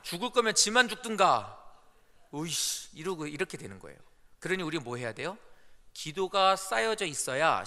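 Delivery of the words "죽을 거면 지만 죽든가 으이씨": acted road-rage grumble; hammed-up, exasperated griping; irritated driver. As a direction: curse the other driver in mock annoyance. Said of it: "기도 많이 안 하고 갔는데".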